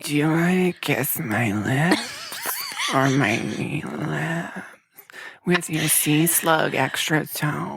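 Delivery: slow, drawn-out seductive tease; sultry mock seduction. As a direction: vamp it up, slow and breathy-free. Mocking a flirty come-on.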